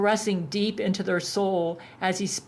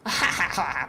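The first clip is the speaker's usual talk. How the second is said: gravelly laugh. A narrator's reading. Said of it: "Baphomet laughed".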